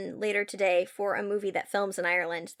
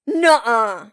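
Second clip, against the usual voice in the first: general reactions; 6 semitones higher, 6 dB louder, much slower than usual. Shown as a demonstration. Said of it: "do some general reactions right now".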